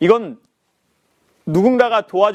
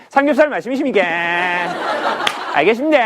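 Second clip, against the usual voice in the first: polite service voice; faster than usual. Retold or imitated. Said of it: "욕쟁이 할머니가 서비스를 배워보세요".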